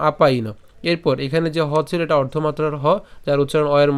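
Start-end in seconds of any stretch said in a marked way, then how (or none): 0.1-0.5 "আপায়িন" with the first vowel linked on; joined together. Shown as a demonstration. Teacher explaining the join, "আপায়িন" as one unit. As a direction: link the opening আ straight into the rest of "আপায়িন". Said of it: "পাইনোর সাথে একসাথে করলাম".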